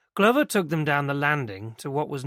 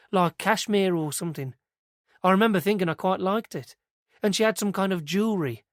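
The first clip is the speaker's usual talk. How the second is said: lightly voiced young woman, pitched higher; earnest young witness telling it eagerly; girl's voice; 5 semitones higher than usual. Christie telling Inspector Mariner what she saw, higher and eager.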